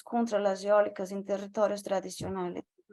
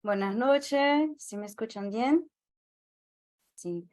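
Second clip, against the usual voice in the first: Brazilian accent Spanish. Real, not acted. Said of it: "mi español no es la mejor cosa".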